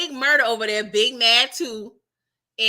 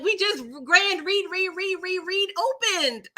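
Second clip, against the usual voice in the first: higher, tripping over the word while laughing; stumbling through a laugh; 7 semitones higher than usual. Real, not acted. Laughing and tripping over the word while reading a comment. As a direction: giggle through the stutter.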